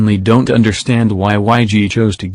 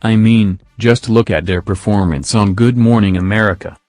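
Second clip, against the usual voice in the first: monotone text-to-speech voice; flat synthetic robot read. Real, not acted. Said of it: "I'm using the robot voice".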